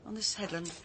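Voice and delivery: breathy whisper, drifting into thought. Acted. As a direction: let it fall to a hushed whisper. Reflective pause on headland.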